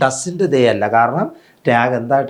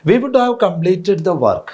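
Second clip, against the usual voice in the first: very slow, every word spaced; slow sentence read for students; slow dictation; 7 semitones higher, much slower than usual. Shown as a demonstration. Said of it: "നോക്കുക".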